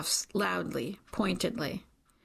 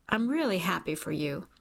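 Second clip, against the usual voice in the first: hurt slipping through. Acted. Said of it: "He lets the hurt in his voice".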